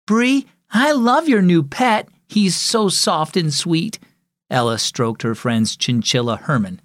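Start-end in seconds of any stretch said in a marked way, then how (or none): 0.1-4.0 adoring. Acted. Admiring friend's new pet.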